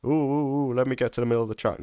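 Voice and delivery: high, rushed mock panic of a timid driver; mocking nervous driver. Coach mocking drivers who turn in early, high and rushed. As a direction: imitate a jittery driver squealing to get inside. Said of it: "They try and".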